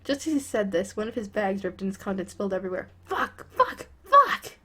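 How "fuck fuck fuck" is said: sudden high yelled curse; angry shout. Acted. Bakugo swearing as his grocery bag rips, shouted. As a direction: blurt it out loud, furious.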